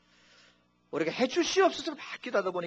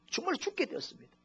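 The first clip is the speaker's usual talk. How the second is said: 정말 cried out much higher, falling away; desperate plea; 13 semitones higher, 6 dB quieter than usual. Shown as a demonstration. Pastor showing the congregation a truly desperate prayer, high and pleading. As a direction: plead 정말 like someone about to die. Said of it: "간절함이 어디 있습니까".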